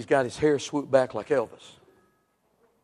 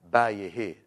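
lower, slurred Cajun "bow your head"; imitated Cajun accent; 6 semitones lower than usual. Cajun telling you to pray, in his slurred accent. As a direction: run it together in a Cajun accent. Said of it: "'cause the Cajun would tell you".

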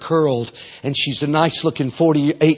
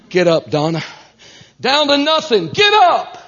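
commanding call; 7 semitones higher than usual. Retold or imitated. God commanding the sick woman.

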